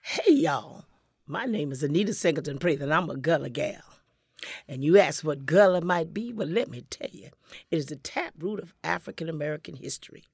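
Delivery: loud, proud Gullah storyteller greeting; in character. Acted. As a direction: hail the audience as a proud Gullah gal. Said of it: "go into character".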